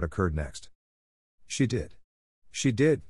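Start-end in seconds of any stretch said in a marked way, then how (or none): 1.5-3.0 insistent repeat, climbing higher the second time; mildly hysterical insistence, rising; hysterical cry. A narrator's reading. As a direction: protest it, then push it higher. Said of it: "she cried".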